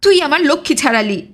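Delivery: mild shout hurled at his wife; sudden shout. Acted. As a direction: blurt it out as an accusing cry. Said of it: "অকস্মাৎ চিৎকার করিয়া উঠিল".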